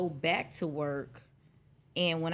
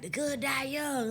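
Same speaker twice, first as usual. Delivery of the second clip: slow, higher mock-solemn quote; drawn out like a proverb; slow quoted saying; 7 semitones higher, slower than usual. Quoting a saying.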